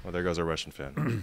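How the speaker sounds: whispered teasing aside. Real, not acted. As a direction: mutter it in a whisper.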